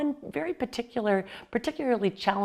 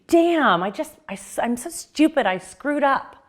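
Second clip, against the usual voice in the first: self-scolding; 5 semitones higher, 3 dB louder than usual. Retold or imitated. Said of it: "those times that you would say".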